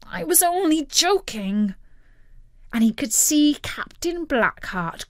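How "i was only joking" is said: high, hushed plea; dismayed Jack. A narrator's reading. Jack thinks of his boast, dismayed. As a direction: squeak it under the breath. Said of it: "thought Jack".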